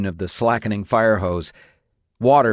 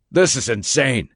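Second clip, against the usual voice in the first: raised voice; 3 semitones higher than usual. Acted. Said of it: "raising his voice".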